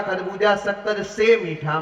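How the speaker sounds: "शक्कर से" stretched before "मीठा"; re-phrased slogan. Acted. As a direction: lean slowly on "से", then "मीठा". Vendor re-parses his own call. ("से" पर ज़ोर देकर "शक्कर से मीठा")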